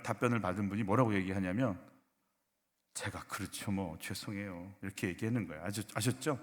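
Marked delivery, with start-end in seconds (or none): 2.9-4.7 soft, low, slow admission; meek apology. Shown as a demonstration. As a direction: own up quietly and humbly. Models humble answer to blame.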